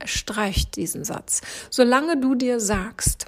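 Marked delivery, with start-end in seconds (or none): 0.1-1.4 whispered command. Real, not acted. Eindringliche Aufforderung.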